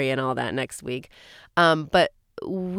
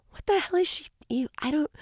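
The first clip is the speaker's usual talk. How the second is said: incredulous aside; 10 semitones higher, 4 dB quieter than usual. Retold or imitated. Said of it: "I'm like".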